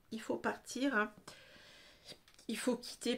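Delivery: talking through hiccups; held-back hiccups between words. Real, not acted. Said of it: "pardon, j'ai le hoquet".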